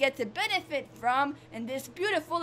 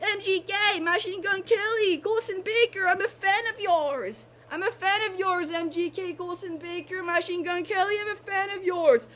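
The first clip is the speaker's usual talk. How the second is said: high-pitched fan call to an idol; gushing fan; 4 semitones higher than usual. Pretend. Fan addressing a rapper, excited. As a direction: call out to a celebrity crush, pitched up.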